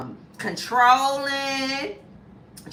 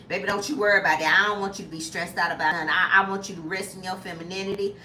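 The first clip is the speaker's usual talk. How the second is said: lower, faster reassuring man's voice; providing man; 5 semitones lower, faster than usual. Retold or imitated. A man telling his woman not to stress, lower fast reassurance. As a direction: soothe her quickly, lower. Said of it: "'Cause I've seen it done".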